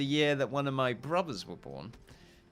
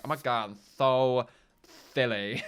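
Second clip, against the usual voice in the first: quirky person. Retold or imitated. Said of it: "one of those people that's just like".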